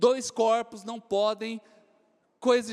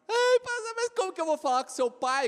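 put-on pleading teen girl; 7 semitones higher than usual.

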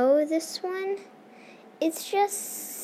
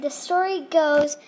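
louder, spooky storyteller voice; scary storyteller voice; 3 semitones higher, 5 dB louder than usual. Shown as a demonstration. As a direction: start it like a spooky tale. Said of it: "you gotta do it properly with the f-, scary voice".

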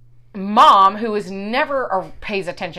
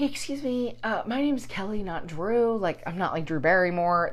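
fake polite; 8 dB quieter than usual. Fake-polite complaint at check-in.

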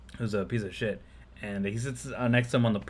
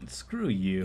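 retold dismissal; 6 semitones lower, 7 dB quieter than usual. Retold muttered dismissal of neighbour.

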